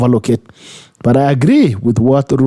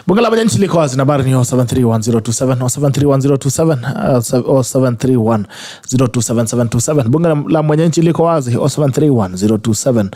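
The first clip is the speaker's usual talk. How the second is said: radio announcer. Acted. Host announces the call-in number.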